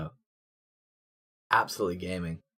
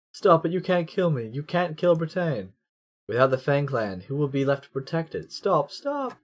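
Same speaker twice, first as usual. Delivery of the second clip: higher, desperate protest; pleading Duke; 5 semitones higher than usual. Acted. Duke begging Percival not to kill him. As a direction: beg with fading authority.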